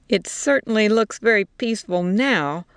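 smiling, mocking tone; grinning. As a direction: say it with a grin.

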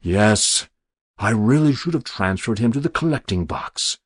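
coy, self-excusing simper. Acted. Stranger embarrassed over the escaped specimen, simpering. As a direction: admit it with dainty false regret. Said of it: "he said with a simper".

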